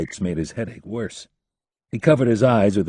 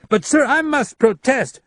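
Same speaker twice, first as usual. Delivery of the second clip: high, slow, loud protest; 6 dB louder than usual. A narrator's reading. Leland protests to the general, high and loud. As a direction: plead against the order.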